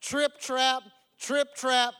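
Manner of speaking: punched storybook footsteps of a big goat; heavy hoofbeats. A narrator's reading. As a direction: stomp out each word like heavy hooves. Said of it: "the billy goat was so heavy".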